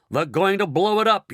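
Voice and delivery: high, loud panicked yell. A narrator's reading. Ground control warning of a bomb, loud yell. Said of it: "yelled ground control".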